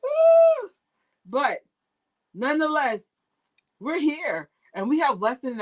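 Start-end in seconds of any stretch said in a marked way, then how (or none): 0.0-0.7 a sudden, very high, frustrated "ah"; exasperated ah. Retold or imitated. To viewers, recalling the broken livestream, squeaked exasperated ah. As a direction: yelp it out high in defeat. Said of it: "So I was just like".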